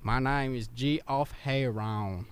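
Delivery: put-on kid voice. Kid introduces himself slowly.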